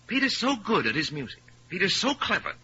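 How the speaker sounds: sing-song mimicry of his fussing fiancée; lightly parroting her praise; mocking Ethel. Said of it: "there was little Ethel here".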